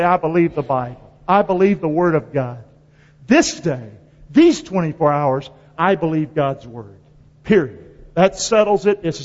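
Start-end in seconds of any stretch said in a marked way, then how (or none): 0.0-7.0 sincere confession. Retold or imitated. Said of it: "and say".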